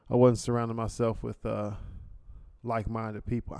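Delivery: breathing hard into the mic; audible heavy breaths between words. Real, not acted. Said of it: "I'm breathing on this mic".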